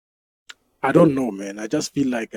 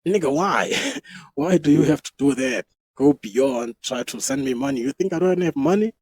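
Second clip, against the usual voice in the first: raised-pitch, half-laughing protest; mock exasperation; 3 semitones higher, 4 dB louder than usual. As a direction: protest in disbelief, playing it up. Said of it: "I was like".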